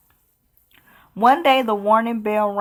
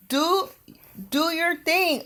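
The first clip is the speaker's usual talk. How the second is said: higher, softer coaxing; 8 semitones higher, 5 dB quieter than usual. Acted. Elizabeth softly urges the dragon to make popcorn, higher coaxing. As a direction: coax him gently.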